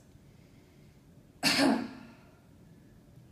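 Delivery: gentle cough with voice in it; demo voiced cough. Shown as a demonstration. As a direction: model cough for the patient. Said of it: "so it's gonna sound like this".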